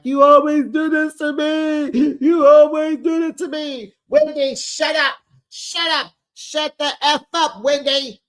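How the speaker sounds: high, loud mock tantrum; screaming quarrel. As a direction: act a shrieked family fight at high pitch.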